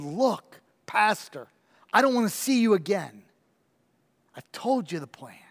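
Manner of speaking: faint, frail and breathless; weak voice. Acted. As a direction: barely get the words out, sick and frail. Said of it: "with his weak voice".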